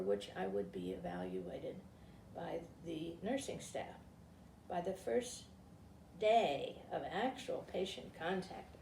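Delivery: reading a book aloud to a group; story reading. Acted. Woman reading a short story aloud to her listeners, in a read-aloud voice.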